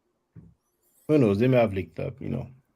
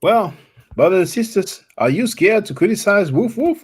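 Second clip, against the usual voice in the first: mock preacher; 7 semitones higher, 5 dB louder than usual. Mock preacher addressing the congregation.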